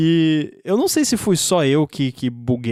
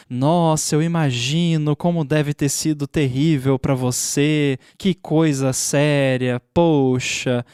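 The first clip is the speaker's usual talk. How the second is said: slow, hollow mock concern; fake sympathy. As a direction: act caring, then push the sale. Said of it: "a personificação da startup de tecnologia como uma pessoa".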